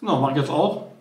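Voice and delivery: chewing while talking; mouth full. Real, not acted. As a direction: talk round a bite. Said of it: "Mit vollem Mund spricht man nicht".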